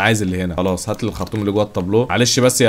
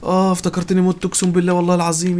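high-pitched, rattled exclamation; shaken relief; 7 semitones higher than usual. Real, not acted. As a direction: swear you nearly died, voice pitched up. Thought he had died in game. (مخضوض وصوته عالي الطبقة)

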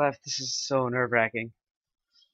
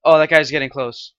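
nervous gasp; 2 semitones higher, 11 dB louder than usual. Real, not acted. Hiding during tense rank quest.

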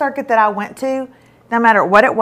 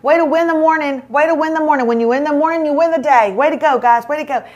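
upbeat instructor; 2 semitones higher, faster than usual. Retold or imitated. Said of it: "our instructor's out there".

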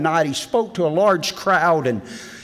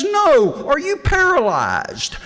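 deadpan punchline; 10 semitones higher, 3 dB louder, slower than usual. Acted. Punchline of joke.

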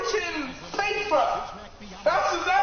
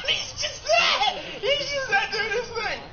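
laughing hard; 8 semitones higher than usual. Real, not acted. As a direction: crack up while saying it.

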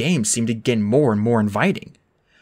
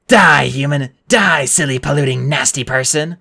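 angry gamer yell; 4 dB louder than usual. A narrator's reading. Grover gaming, yelling at screen.

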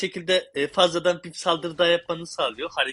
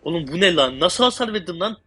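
shocked; slower than usual. Real, not acted. Sudden big damage in game.

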